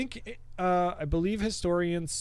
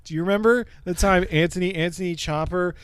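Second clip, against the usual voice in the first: heated, raised and pressed rant; exasperated rant; 4 semitones higher, 4 dB louder than usual. Real, not acted. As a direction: rant in comic outrage, hitting the swear words. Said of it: "so fucking mad during this".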